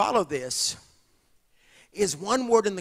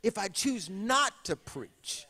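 starts measured, swells louder into a fervent cry; building preaching; 4 dB louder than usual. Acted. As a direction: let the verse grow from calm to burning. Quoting Jeremiah, building intensity.

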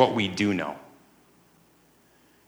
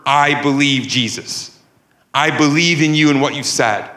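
"I believe" stressed firmly; emphatic profession, punching "believe"; firm, emphatic conviction; 2 semitones higher than usual. Acted. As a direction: declare "I believe" without a hint of doubt. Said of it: "It's firm".

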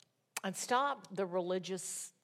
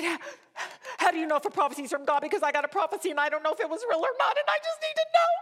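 high, fast, tearful pleading rising to a wail; crying plea; 10 semitones higher, 6 dB louder, much faster than usual. Retold or imitated. Woman begging the Scottish prophet for an answer, high tearful plea. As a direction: beg for an answer through tears, rushing. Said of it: "by then I'm crying".

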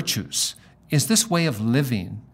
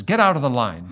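a retold sharp, louder command; curt order; 5 dB louder than usual. Gate agent ordering him out of the boarding line, curt and harsh. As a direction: snap it like an annoyed gate agent. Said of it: "She says, just like that".

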